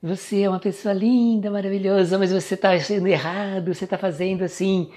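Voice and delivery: criticize in an exaggeratedly sweet, high voice; mock-sweet lilting reproach; sugary sweet. Shown as a demonstration. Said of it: "você fala docemente, mas você tá criticando".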